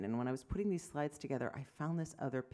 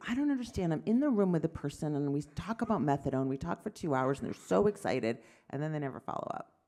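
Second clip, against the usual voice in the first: frustrated fellow; 7 dB louder than usual. Retold or imitated. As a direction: play the puzzled young doctor venting. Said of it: "the addiction fellows ask me".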